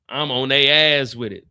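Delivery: firm spoken vow, at full level. Retold or imitated. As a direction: punch it out as a declaration.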